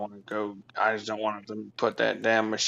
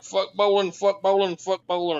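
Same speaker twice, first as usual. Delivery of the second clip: shouted wrestling promo chant; 7 semitones higher, 3 dB louder than usual. Pretend. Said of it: "and I'll be like".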